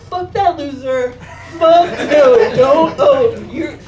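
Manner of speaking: loud, high, laughing rant; hyped-up friend yelling. Retold or imitated. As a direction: egg her on with a laughing shout. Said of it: "He's like".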